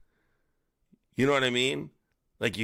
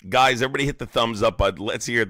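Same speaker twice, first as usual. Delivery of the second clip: hype call; 2 semitones higher, 6 dB louder, much faster than usual. Real, not acted. Hyping the stream audience.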